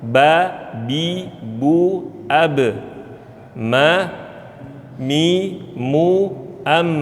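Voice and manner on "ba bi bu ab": "Ba, bi, bu, ab" with relaxed, natural lips; "Ba, bi, bu, ab" read normally without pursing; plain ba bi bu ab. Shown as a demonstration. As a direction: say "ba" plainly, lips just closing. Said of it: "kalau ba biasa aja".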